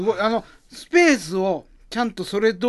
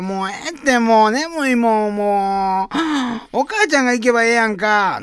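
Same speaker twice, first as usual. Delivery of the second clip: put-on whiny sleepy boy; 6 semitones higher, 4 dB louder than usual. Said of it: "始まりの街というネタ".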